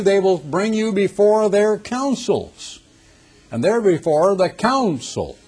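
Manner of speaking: slow, deliberate Bible reading; preacher solemnly reciting Scripture; emphatic Scripture reading. Acted. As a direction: draw out each phrase of the verse. Reads Scripture aloud emphatically.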